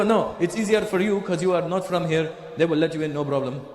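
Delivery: lightly imitated Lebanese English; mock Lebanese accent, reassuring. Friends tell visitor he will get in, Lebanese accent.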